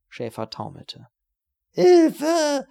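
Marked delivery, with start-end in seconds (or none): 1.7-2.7 screamed much higher and louder; high scream for help. Acted. Beaten watchman screaming for help, high and very loud. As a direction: shriek for help in panic. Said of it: "schrie er dann mit einer fetten, hohen Stimme".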